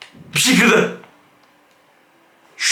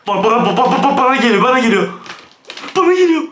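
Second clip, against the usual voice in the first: higher and rising in panic, stuttering; panicked stammer; 6 semitones higher than usual. Real, not acted. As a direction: stammer as the thing rushes at you. Santa charging at him. (panik içinde kekeleyerek)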